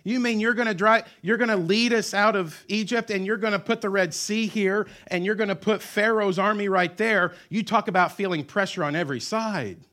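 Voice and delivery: high, loud disbelief; incredulous outcry. Retold or imitated. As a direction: throw the question back at God. Incredulous people confronting God.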